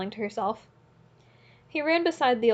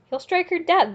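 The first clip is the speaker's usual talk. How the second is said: much higher, louder alarmed cry; shout; 7 semitones higher, 5 dB louder than usual. A narrator's reading. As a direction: cry out in horror. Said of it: "they shouted all round".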